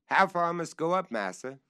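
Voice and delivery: high, loud question from up the tree; calling down. Acted. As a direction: shout the question down to his master.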